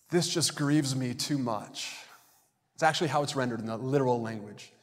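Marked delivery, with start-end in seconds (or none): 0.1-1.9 slow, understated grieving complaint; aggrieved, drawn-out words at near-usual pitch; mildly grieved. Acted. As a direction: say it slowly, as a restrained show of grievance. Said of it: "it's this response of someone going".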